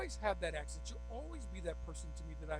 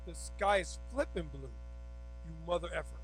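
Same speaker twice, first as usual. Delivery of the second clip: crude emphatic version; 3 dB louder than usual. Shown as a demonstration. Telling someone the same fact with crude emphasis. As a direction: spit out "flipping blue" with mock bite. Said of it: "I don't like the way you said it's flipping blue".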